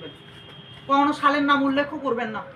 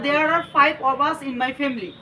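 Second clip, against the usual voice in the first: slow dictation; much slower than usual. Shown as a demonstration. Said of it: "teacher dictating a model sentence".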